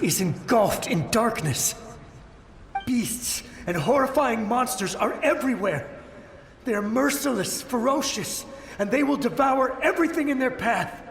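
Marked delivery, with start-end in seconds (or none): 2.9-11.0 rising higher and more desperate; frantic warning. Acted. Soldier warning travellers of monsters, frantic rising fear. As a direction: build the terror as you warn them.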